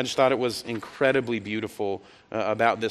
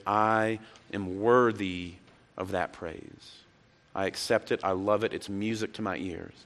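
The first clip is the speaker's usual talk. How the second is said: tender acceptance; 3 semitones lower, 3 dB quieter than usual. Retold or imitated. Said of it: "That Jesus heard it and says".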